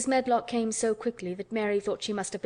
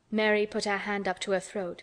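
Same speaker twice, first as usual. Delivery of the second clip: ordinary delivery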